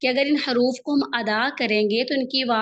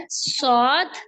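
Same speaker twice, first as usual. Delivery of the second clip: each letter drawn out slowly; slow letter demo; much slower than usual. Shown as a demonstration. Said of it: "آپ نے غور سے سننا ہے".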